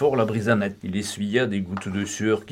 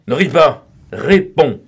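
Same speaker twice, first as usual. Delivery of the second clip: louder, higher barked order; angry command; 4 semitones higher, 8 dB louder, slower than usual. A narrator's reading. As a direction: snap at him to stop laughing. Lupin orders the laughing boy.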